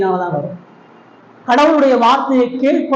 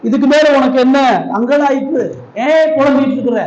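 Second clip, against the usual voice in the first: rising rebuke; 5 semitones higher than usual. Acted. Preacher voicing Jesus' rebuke.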